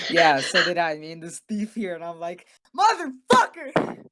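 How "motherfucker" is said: high, loud, drawn-out mock curse; mock outburst. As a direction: blurt it out like a groggy mock yell. Waking up next to a thief.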